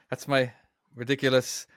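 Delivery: lightly voiced pirate, slowing at the end; ridiculous pirate voice. Shown as a demonstration. Host showing off the silly voice just used, in a pirate voice. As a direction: stretch the last words like a silly pirate. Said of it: "ridiculous pirate voice".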